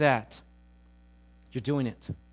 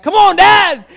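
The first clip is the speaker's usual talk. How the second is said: put-on high, loud kid's cheer; a loud, high kid yell from the back seat; excited kids cheering; 13 semitones higher, 14 dB louder, slower than usual. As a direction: egg Dad on like a thrilled boy. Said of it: "my boys in the back are like".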